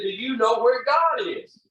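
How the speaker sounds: pastor raises his voice, slow and high, stressing God. Retold or imitated. Pastor repeats question louder.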